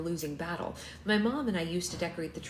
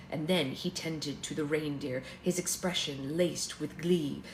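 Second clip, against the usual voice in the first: lilting rhymed poem recital; poem reading. Acted. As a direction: read it like a holiday verse. Reads narrator's Christmas poem.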